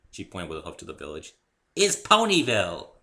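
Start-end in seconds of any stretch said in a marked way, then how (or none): 1.7-3.0 put-on much higher, louder giddy pony girl; bubbly Pinkie Pie. A narrator's reading. Cheerful pony introducing herself to Dave, high and bubbly. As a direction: chirp it out like an overexcited pony.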